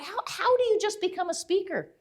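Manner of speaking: high-pitched acted bewilderment; flustered question. Intern asking boss how to begin, high and flustered. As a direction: stammer it out, high and helpless.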